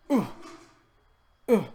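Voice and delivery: two brief high hoots, spaced apart; imitated short "ooh". Policeman reacting when it is whipped out, imitated "ooh". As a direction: mimic his little noise twice.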